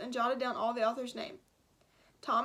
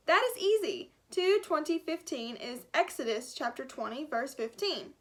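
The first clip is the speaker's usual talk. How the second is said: put-on thick German accent, brisk and sure. Gutenberg telling Miguel the verse, in a thick German accent. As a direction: answer like a proud German scholar. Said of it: "a thick German accent".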